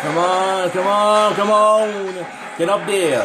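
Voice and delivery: will the character upward; frantic urging. Real, not acted. Urging escape into vent.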